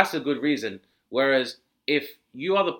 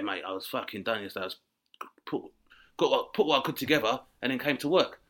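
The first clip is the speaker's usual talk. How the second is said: hungover holiday rep; 3 semitones lower, faster than usual. Retold or imitated.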